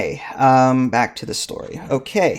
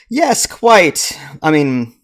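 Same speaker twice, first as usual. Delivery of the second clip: higher, clipped proper yes quite; hero's reply; 4 semitones higher, 4 dB louder, slower than usual. Acted. Hero answering the clerk, hammed-up proper voice.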